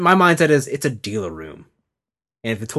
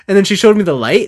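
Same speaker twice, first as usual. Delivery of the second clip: ordinary talk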